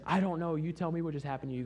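high, rushed comeback; startled reply. Retold or imitated. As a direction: retell a baffled answer, throwing the question back. Startled exchange after man revives.

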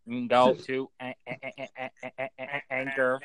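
glitchy stutter. Pretend. Mimics the call breaking up.

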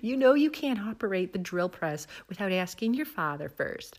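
lightly imitated scolding Midwestern mom accent; mock-reproving Midwest accent; Cheryl Lipinski. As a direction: chide with a touch of Upper Midwest accent. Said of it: "a Midwest version".

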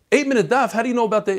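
"Eight-minute daf" with a sudden high surprised rise; retelling a stranger's amazed question. Retold or imitated. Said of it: "a guy from Seasons Express comes over and says".

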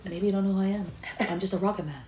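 soft, low deadpan reply; lightly voiced son, quiet and amused; son's reply. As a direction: mumble it back like a sulky son. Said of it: "And he goes".

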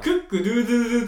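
rooster call. Retold or imitated. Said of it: "鶏の鳴き声の".

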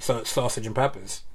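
sausage and peppers run together the local way; Massachusetts accent. Shown as a demonstration. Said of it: "how we grew up saying it".

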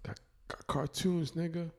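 high, slow rapper boast; imitating a rapper bragging; rapper impression. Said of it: "The rapper, the Becoming".

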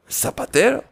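a quick high, hushed double take on "zapatero"; surprised question. Acted. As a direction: disciples asking again, high and soft in disbelief. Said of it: "Se sorprendieron los discípulos".

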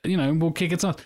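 lightly voiced swaggering Boromir; arrogant warrior. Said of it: "like, the arrogant warrior".

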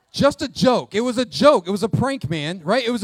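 loud playful backpedal; loud protest. Real, not acted. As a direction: shout down the gasps, grinning. Insists the CPS line was joking.

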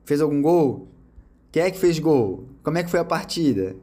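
lightly voiced doting girlfriend; sweet curious girlfriend. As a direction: ask lovingly about his match. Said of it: "falar assim".

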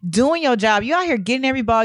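insistent retold pep talk; uplifting pep talk. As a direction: imitate teammates firmly talking you up. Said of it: "they uplifted and empowered me".

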